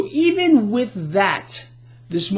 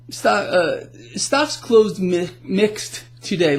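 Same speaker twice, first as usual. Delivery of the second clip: stumbling over words with false starts; halting, tongue-tied delivery; slower than usual. Real, not acted. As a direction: trip over the words and restart. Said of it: "I'm getting tongue-tied already".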